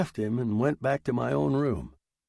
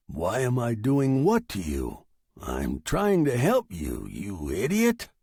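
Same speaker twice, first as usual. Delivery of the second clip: impatient machine. Acted. Machine retorts to the writer.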